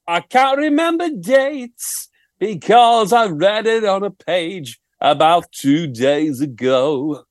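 slow, drawn-out rock-star voice; impression of a rock singer. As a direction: drawl it lazily like a rock singer. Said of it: "Ryan Tubridy".

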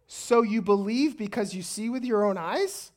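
mildly sarcastic, tune rising on "eyes"; pointed question, lifting at the end. Acted. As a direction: ask it with a touch of sarcasm. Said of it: "like, so sarcastic".

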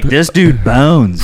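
slow, drawn-out mock gossip; mock nurses gossiping. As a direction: savour it like gossiping staff. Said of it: "they're like".

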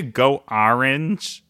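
slow, drawn-out "Orange", questioning how it is said; "Orange" held up for inspection, rising at the end; questioned pronunciation. Retold or imitated. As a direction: slowly query the first vowel of "Orange". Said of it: "I don't say it like that".

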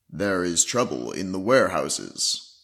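a hint of a grave knight announcing the quest; noble hero voice. Dog hero speaks to the party in a hint of a solemn hero voice. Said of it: "you hear him say".

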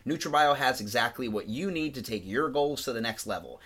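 scripted podcast ad read; polished promotional read; sponsor ad read. Real, not acted. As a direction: read the sponsor copy to listeners. Reads the sponsor spot.

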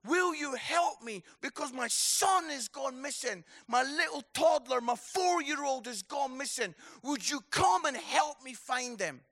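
a panicked dad shouting for help; a father bursting in to beg the crowd to find his missing son; pleading shout. Pretend. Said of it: "he would start shouting and say".

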